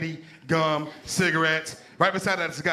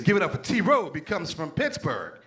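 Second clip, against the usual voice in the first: show announcer; 3 semitones higher, slower than usual. Retold or imitated. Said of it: "I'm backstage. They say".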